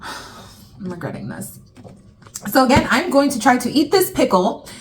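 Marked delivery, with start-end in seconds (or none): 0.0-1.6 low, slow regretful sigh; quiet dread. Real, not acted. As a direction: mutter it with dread. Dreading the sour pickle challenge.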